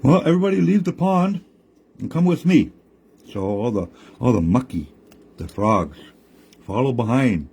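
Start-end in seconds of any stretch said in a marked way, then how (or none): 0.0-2.7 higher, brisk trickster call; raised, eager coyote voice; Coyote leading. Acted. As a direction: hurry them along. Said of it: "Coyote's there going".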